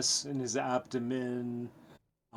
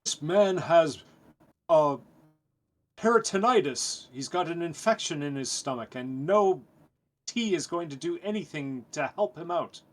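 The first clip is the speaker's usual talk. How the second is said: louder, higher urgent insistence; forceful diagnosis; 4 semitones higher, 4 dB louder than usual. Acted. Physician player overrules the village doctor, loud and urgent. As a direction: hammer home that he's dying.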